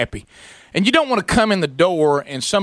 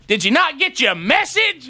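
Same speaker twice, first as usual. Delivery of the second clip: sarcastic question; 10 semitones higher than usual. Retold or imitated. Confronting the late installer.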